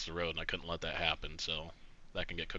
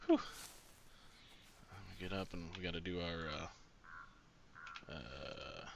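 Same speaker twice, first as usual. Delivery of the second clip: strained and winded mid-workout; doing crunches; 3 semitones lower, 8 dB quieter than usual. Real, not acted. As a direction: talk while pushing through crunches. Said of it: "Sorry, I'm just doing my crunches".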